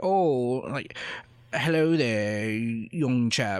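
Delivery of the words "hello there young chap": slow, fake, toffish British accent. Showing what the accent he means sounds like: put-on British accent. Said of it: "Cockney is like upper north, like".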